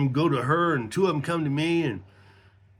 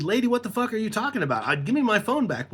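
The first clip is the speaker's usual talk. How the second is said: fast, higher-pitched exasperated demand; indignant; 5 semitones higher, faster than usual. Retold or imitated. Telling the woman to give his phone back, indignant. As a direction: retell an incredulous protest. Retold angry confrontation with the woman.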